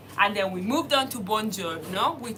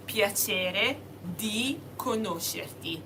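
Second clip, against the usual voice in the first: slow demo; 5 dB quieter, slower than usual. Shown as a demonstration. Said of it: "I might be a bit too fast, but look at it".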